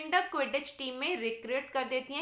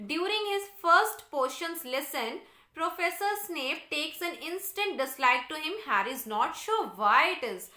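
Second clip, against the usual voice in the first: slow, deliberate textbook read-aloud; measured classroom reading; 3 semitones higher, much slower than usual. Real, not acted. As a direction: read it out slowly for a class, word by word. Reads the English text aloud.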